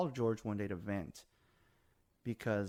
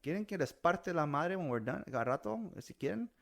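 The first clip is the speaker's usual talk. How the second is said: mock threat; 7 semitones higher than usual. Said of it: "I'm like".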